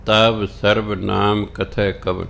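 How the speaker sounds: slow, measured recitation of the verse; scripture recitation. Real, not acted. ਗੁਰਬਾਣੀ ਦੀ ਪੰਗਤੀ ਸੰਗਤ ਨੂੰ ਸੁਣਾਉਂਦਾ ਕਥਾਵਾਚਕ, ਧੀਮਾ ਪਾਠ. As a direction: chant each word of the line deliberately.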